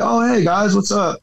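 casual friendly hail, voice lifted; friendly greeting. Retold or imitated. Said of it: "I was just trying to be friendly".

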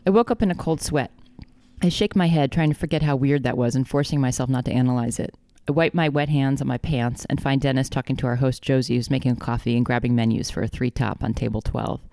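even, measured audiobook-style reading; story narration. A narrator's reading. Author reading the dream chapter to co-host, measured narration. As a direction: read the dream as steady narration.

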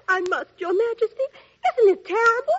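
laughing. Acted. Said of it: "laugh all the time like that".

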